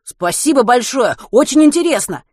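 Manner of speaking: loud, high, heartfelt thanks; fervent exclamation. Acted. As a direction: exclaim it hotly, gushing. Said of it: "горячо воскликнул Матвей".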